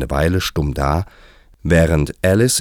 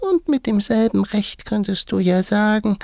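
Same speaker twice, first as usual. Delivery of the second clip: tiny, extremely high mouse voice; very high, sleepy dormouse squeak; sleep-talking dormouse. A narrator's reading. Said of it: "die offenbar im Schlafe sprach".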